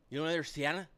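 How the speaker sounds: loud taunting troll voice. Pretend. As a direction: goad them like an online troll. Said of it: "This is my troll voice".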